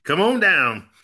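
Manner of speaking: loud, high announcer call; game show host voice. Acted. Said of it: "I have a game show host voice".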